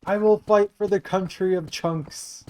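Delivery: high, hammed-up fake Michigan accent; mocking a politician's exaggerated Michigan accent; mock Haley Stevens accent. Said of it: "nobody sounds like that from Michigan".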